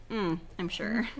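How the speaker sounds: dry, offhand agreement that lands as sarcasm; unintentionally sarcastic. Real, not acted. Co-host agreeing about the plot, accidentally sarcastic. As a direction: sound faintly doubtful while agreeing. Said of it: "didn't mean to say that sarcastically".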